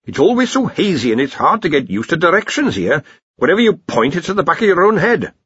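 put-on high, complaining old don; a lightly voiced fretful wizard. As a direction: grumble like a puzzled old wizard. The senior wrangler complains.

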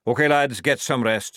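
loud, brisk sergeant; sergeant's orders. Acted. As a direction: order the lads about heartily. Sergeant stamping in, giving orders.

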